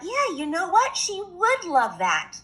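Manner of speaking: put-on delighted little girl thinking aloud; high young girl voice; girl's thought. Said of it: "Little Red Riding Hood thought".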